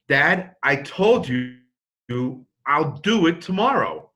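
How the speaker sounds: slow, drawn-out mock exasperation; exasperated daughter. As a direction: imitate a daughter tired of being asked. Daughter asked a third time.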